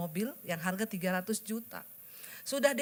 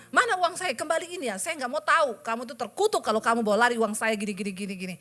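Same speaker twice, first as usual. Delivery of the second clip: angry demand; 3 dB louder than usual. Retold or imitated. Angry message to the thief.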